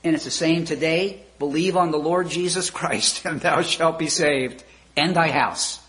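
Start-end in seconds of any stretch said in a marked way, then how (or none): 1.4-5.8 voice from heaven. Retold or imitated. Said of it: "And the voice came back".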